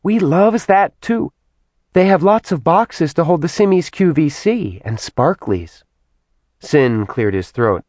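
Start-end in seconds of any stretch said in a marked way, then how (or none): 0.0-5.8 put-on high-pitched, excited girlish demon; bubbly Simi demon. A narrator's reading. Simi gushing to Kat about shopping, high and chirpy.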